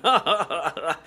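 mock showman's chuckle; fake TV-host laugh. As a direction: laugh like a phony presenter. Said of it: "Like that really fake American T V show".

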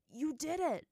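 high, loud cheer; joyful shout. A narrator's reading. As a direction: shout it out in joy. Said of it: "Zuko was the first to shout in joy".

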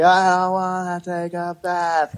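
dad imitating his crying son refusing a bath. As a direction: play a tired five-year-old whining. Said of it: "and he's like".

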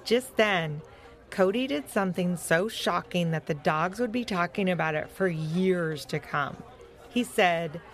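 animated, measured storytelling voice; story narration. A narrator's reading. Telling young listeners about Fetcher's adventure, story narration. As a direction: read it out clearly for young listeners.

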